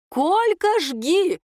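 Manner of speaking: very high, loud whoop; excited yell. A narrator's reading. Mother dancing and cheering her husband, high loud yell. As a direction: cheer him on, carried away. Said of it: "вошла в раж мама".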